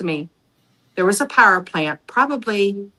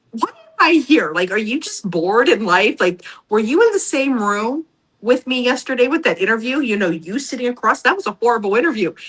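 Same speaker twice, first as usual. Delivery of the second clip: incredulous; 4 semitones higher than usual. Retold or imitated. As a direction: challenge him, baffled, pitch up. Confronting interviewer, incredulous.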